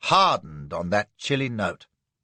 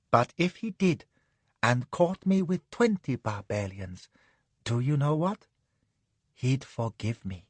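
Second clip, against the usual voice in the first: soft, sleepy lady's voice; drowsily; 3 dB quieter than usual. Acted. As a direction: murmur it half asleep. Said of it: "says she drowsily".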